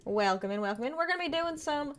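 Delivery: put-on southern accent. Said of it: "we're done with the southern accent".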